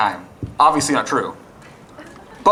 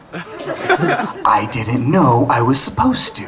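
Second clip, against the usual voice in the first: sheepish reply; 4 semitones lower, much slower than usual. Retold or imitated. Husband reply in quarrel.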